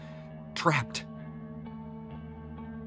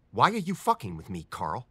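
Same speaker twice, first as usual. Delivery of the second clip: rising exasperation; heated, accusing question; losing temper. Acted. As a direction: confront him, temper fraying. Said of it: "for losing my temper".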